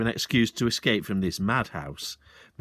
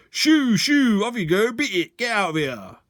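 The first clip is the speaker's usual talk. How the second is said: much higher, louder shooing, fading; shouting shoo; 10 semitones higher, 6 dB louder than usual. Acted. Sergeant shooing the pheasants away, shouting and fading. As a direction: chase the birds off. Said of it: "waving his arms and shouting".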